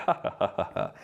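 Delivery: breathy mock laugh; a soft, unvoiced imitated chuckle; imitating a laugh. Retelling the being's laugh at him, soft mock laugh. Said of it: "And then he laughed".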